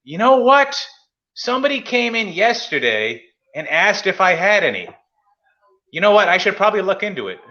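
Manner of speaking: mocking shop owner. Mocking the card shop owner to his friend, high goofy voice. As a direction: play the clueless shopkeeper, high and airy.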